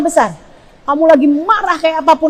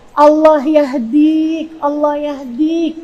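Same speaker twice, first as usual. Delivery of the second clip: slow, drawn-out gentle plea; restrained anger prayer; much slower than usual. Acted. Angry parent praying for guidance for the child, slow restrained plea. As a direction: stretch it out instead of cursing. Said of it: "cuman ngomongnya kayak gini".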